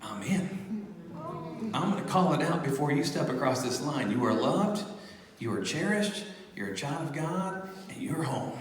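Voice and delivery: a hint of a tender soft-spoken blessing; gentle blessing. Voicing the Delta lady blessing the baby, lightly soft and tender. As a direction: speak it softly like a blessing over a child.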